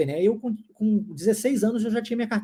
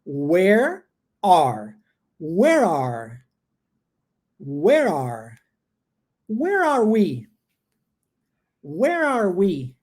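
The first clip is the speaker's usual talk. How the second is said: "where are we" said slowly, word by word; slow drill; 3 semitones lower, much slower than usual. Shown as a demonstration. Teacher drilling the phrase slowly for students to repeat. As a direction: stretch out "where are we" for the class. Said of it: "Ó".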